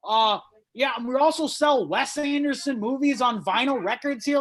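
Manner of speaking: high, loud craft-beer snob voice; snobby bartender. Retold or imitated. Comic mocks a hipster bartender's pitch, snooty high voice. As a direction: oversell it like a pompous brewer. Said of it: "selling me on this, like".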